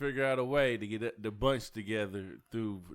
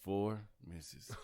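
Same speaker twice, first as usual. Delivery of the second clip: put-on old country Mississippi; 4 semitones lower, 7 dB quieter than usual. Shown as a demonstration. Demonstrating to friends how Mississippians count, old country accent. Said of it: "You gotta do an old country Mississippi".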